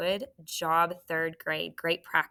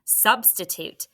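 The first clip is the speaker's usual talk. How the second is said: slow model; 2 semitones higher than usual. Shown as a demonstration. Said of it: "What's the word?".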